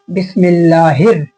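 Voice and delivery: slow, measured recitation for learners; slow teaching model of one short part; small-part recitation. Shown as a demonstration. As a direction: recite it carefully with a lengthened vowel. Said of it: "छोटे छोटे हिस्से में करके बता रहा हूँ".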